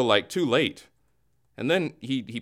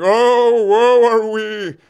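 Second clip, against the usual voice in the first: louder, higher, slow hammed-up wail; mock moaning lament; 8 semitones higher, 9 dB louder, much slower than usual. Anchor mimicking fans moaning about summer, mock wail. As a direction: ham up a self-pitying groan. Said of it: "moaning and grumbling and saying".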